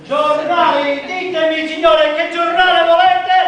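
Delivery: newspaper seller's sing-song hawking; long wailing street cry. Acted. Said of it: "newspaper seller crying his wares".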